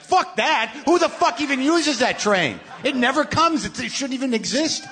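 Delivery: furious rant. Retold or imitated. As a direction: fling it out like an outraged yell. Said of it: "that's how angry I was".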